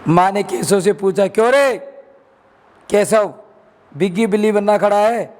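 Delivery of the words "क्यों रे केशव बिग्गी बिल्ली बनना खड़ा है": scolding. Acted. Mother confronting her son about the eggs, sharp scolding. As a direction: call the boy out sharply.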